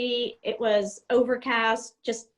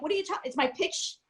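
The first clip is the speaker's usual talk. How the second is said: confused copilot; 4 semitones higher than usual. Retold or imitated. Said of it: "And I'm like".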